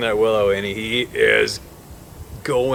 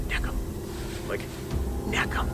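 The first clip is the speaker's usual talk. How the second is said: retold whisper; 13 dB quieter than usual. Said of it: "I just whispered real quiet".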